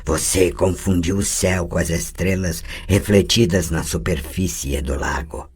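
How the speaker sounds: mock her like something not human; the possessing voice jeering at Tris; mocking inhuman voice. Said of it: "zombou a inumana voz metálica".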